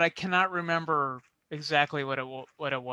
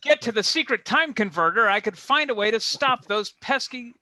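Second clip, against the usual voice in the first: villain monologue; 4 semitones higher than usual. Acted. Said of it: "mostly exposition".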